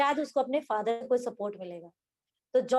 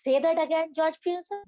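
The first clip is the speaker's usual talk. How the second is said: glare and dare him to repeat it; savage challenge; 4 semitones higher than usual. Acted. Wife glaring at husband, daring him, mildly savage. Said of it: "घूरते हुए savagely".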